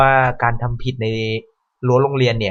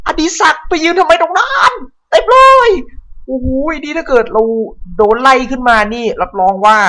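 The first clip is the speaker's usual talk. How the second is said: much higher, loud startled cry; frightened yell; 12 semitones higher, 6 dB louder than usual. Real, not acted. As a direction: shriek in alarm then calm down. Sudden zombie scare.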